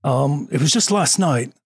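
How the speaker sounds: calm, lightly British storyteller; slightly British accent. Acted. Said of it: "answer this in a slightly British accent, very calmly".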